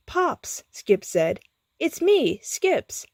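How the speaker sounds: high, urgent plea; pleading. A narrator's reading. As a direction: make him remember you. Skips pleads to be recognized.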